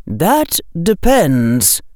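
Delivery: cold and hard. A narrator's reading. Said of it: "Amelia said in a hard voice".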